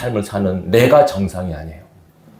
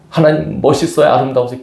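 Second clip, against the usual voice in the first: higher, bright-voiced praise to God; demo praise; 4 semitones higher than usual. Shown as a demonstration. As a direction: show the congregation how to marvel. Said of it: "그걸 해야 돼".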